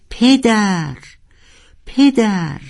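high calling cry; roar. Acted. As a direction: howl it out into the ocean. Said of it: "نعرهٔ ناروال". (نعرهٔ بلند)

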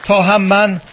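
panting while climbing uphill; breathless, talking between breaths. Real, not acted.

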